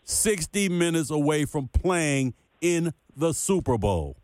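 drawn-out, deliberate restatement; slow, emphatic repeat. Shown as a demonstration. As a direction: drive it home slowly for slow listeners. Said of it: "I'm gonna say it slow".

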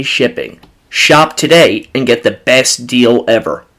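loud, upbeat sponsor read. Acted. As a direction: sell it like a radio spot. Host reads sponsor ad.

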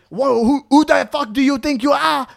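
high, indignant mock outburst; acted outrage. Acts out outraged friend being grabbed.

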